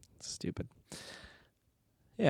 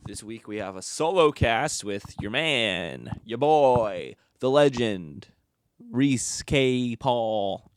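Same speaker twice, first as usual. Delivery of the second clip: slow, drawn-out podcast host intro; impression of Kyle; 2 semitones higher, 5 dB louder, slower than usual. To listeners, doing his friend's intro voice, slowed and grand. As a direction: hype himself up like a big-voiced host. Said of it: "That's my ins-, my interpretation of you".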